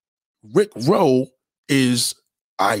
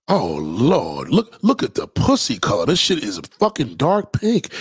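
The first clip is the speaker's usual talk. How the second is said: deep, marveling murmur; awed low voice; 3 semitones lower than usual. Retold or imitated. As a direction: gasp in low admiration. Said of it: "he was fucking the shit".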